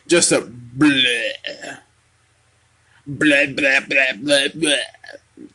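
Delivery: drawn-out bored bleh sounds; slow, deflated bleh noises; groaning bleh, bleh, bleh like something dull; mocking bleh. Shown as a demonstration. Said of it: "That's how it felt to me".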